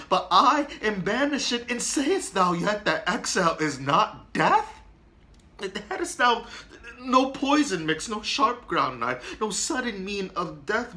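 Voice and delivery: anguished pleading. Acted. Romeo pleads against banishment.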